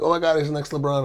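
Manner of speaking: mock gushing over a tiny prodigy; hushed, high-pitched thrill, lightly acted; retold excitement. Dad retelling his own excited reaction.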